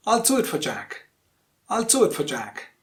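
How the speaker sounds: "do" and "Jack" stressed, the rest light; quick weak "for" before a stressed "Jack". Shown as a demonstration. Teacher modelling for repetition, stress on "do" and "Jack". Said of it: "Only these two words are stressed".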